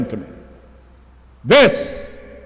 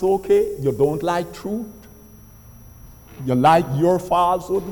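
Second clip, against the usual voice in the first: voice of God; 4 semitones lower than usual. Retold or imitated. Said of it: "The Almighty God says".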